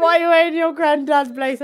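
high, loud mocking quote; lightly mimicking a snarky friend; mocking friend's voice. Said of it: "she's like".

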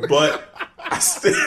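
giggling mid-line, slow; can't keep a straight face; laughing through a quote. Retold or imitated. Podcast host retelling Jericho, breaking into laughter.

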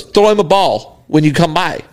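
loosely imitated Australian accent. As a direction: do a casual Australian golfer. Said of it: "got that thick Australian accent".

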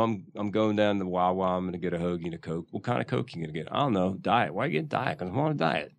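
casual working-class Philly accent. Shown as a demonstration. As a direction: toss it off as everyday Philly small talk. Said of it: "What's the Philly accent?".

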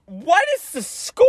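high, loopy woozy voice; dazed brother. Retold or imitated. Bleeding brother asking his siblings about the soccer score, high and dazed. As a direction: play the dizzy kid, lightly silly.

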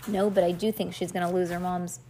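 plain reading voice

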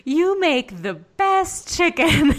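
high, loud, slow gush through laughter; mock gushing dad. Dad gushing to his girlfriend about her chicken, laughing mock praise. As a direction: ham up a dad raving over dinner.

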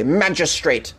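magistrate said in a lightly posed English accent; a hint of English accent, drawn out and falling. Shown as a demonstration. Showing viewers how to say magistrate, in English accent. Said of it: "You must say that with an English accent".

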